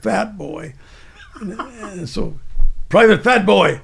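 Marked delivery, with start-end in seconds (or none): 2.9-3.8 loud drill sergeant call; mock drill sergeant shout; sergeant barking. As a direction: bark the name like a drill instructor. Drill sergeant calling recruit.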